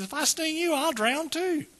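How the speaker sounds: high-pitched scorpion making his case; scorpion's reasoning. Acted. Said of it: "He says".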